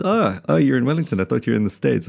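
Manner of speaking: lightly voiced surprised fan; imitating surprised listeners. Retelling listeners surprised they live in Wellington, mild mock surprise. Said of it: "they realize".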